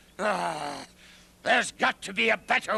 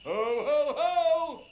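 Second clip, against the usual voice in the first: fake Santa. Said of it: "It is I, Santa Claus".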